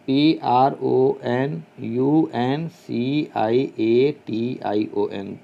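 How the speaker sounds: slow letters, low and soft; spelling letter by letter. Shown as a demonstration. Teacher spelling the word for students, letter by letter. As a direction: read out each letter slowly. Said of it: "ज़रा spelling सुनिए pronunciation की".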